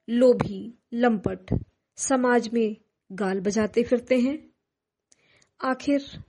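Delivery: anguished poem, broken by long pauses; halting, emphatic verse delivery with wide pitch swings; dramatic poetry recitation. Acted. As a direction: recite with swelling questions and falling phrases.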